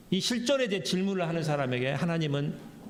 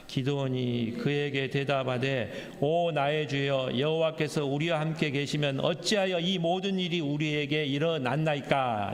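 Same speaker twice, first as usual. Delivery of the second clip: slow, measured Bible recitation; scripture reading; slower than usual. Acted. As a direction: read the verse in a steady, drawn-out recital. Reads scripture aloud with congregation.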